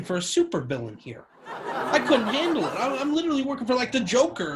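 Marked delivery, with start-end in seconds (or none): 1.5-4.5 high, breaking into laughter; laughing. Real, not acted. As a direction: laugh through the words. Laughing at his own story.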